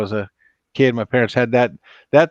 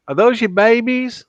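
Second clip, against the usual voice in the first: wide-mouthed frog; 10 semitones higher, 3 dB louder than usual. Acted. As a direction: stretch every word like a big-mouthed frog. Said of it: "wide-mouthed frog".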